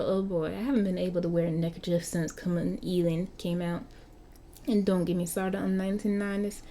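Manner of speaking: lightly voiced young London vampire, a bit indignant; Marky the vampire. Game master as Marky, grumbling to the player about clothes. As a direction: grumble about the clothes like a centuries-old teen.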